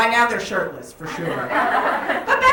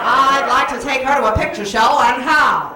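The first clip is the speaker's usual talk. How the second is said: 1940s fellas; 4 dB louder than usual. Retold or imitated. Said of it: "Men would all be like".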